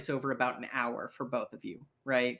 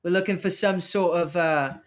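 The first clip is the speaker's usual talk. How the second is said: slightly raised, wheedling patter; coaxing street rogue; 3 semitones higher than usual. Acted. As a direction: press a reluctant contact for info. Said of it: "He goes".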